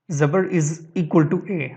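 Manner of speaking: زبر is equal to اے said very slowly; slow teaching emphasis. Shown as a demonstration. Teacher stressing the rule to students, slow. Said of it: "اے کی آواز بنانی ہے".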